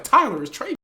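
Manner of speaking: high, loud mimicked question; mock questioning call. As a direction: imitate her calling out a nosy question. Acted question from friend in car.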